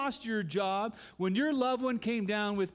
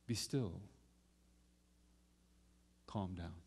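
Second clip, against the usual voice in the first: gentle be still; 10 semitones lower, 9 dB quieter than usual. Retold or imitated. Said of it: "he says to the storm".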